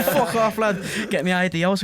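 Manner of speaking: loud, high shout of disbelief through laughter; high-pitched mock-astonished shouting; amazed outburst. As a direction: retell it as a laughing, incredulous yell. Acted amazed reply to namesake.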